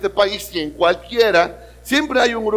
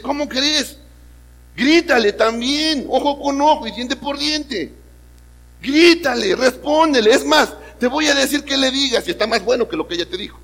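higher, louder goading voice; egging on; 7 semitones higher, 3 dB louder than usual. Acted. Opposition inner voice goads husband, higher and louder. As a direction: push him to shout back, higher and louder. Opposition voice urges yelling back.

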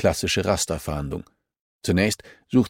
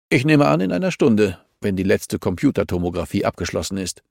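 firm, raised-pitch rebuke; lightly voiced stern official. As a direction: tell her off, a hint of authority. (leicht gespielter strenger Zurechtweiser)

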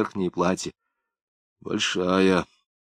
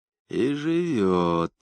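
absent-minded repeating; 3 dB quieter, much slower than usual. Acted. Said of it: "Без всякого смысла, говорил он".

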